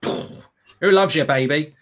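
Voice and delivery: drawn-out, very slow tough-guy line; hammed-up slow gangster drawl; mock gangster line. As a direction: stretch it out like a movie hard man. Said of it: "pulled out a gun and went".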